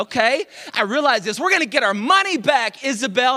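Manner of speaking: a husband puffing up his chest; indignant declaration. Retold or imitated. Husband telling his wife they will get a refund, worked up. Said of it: "I'm like".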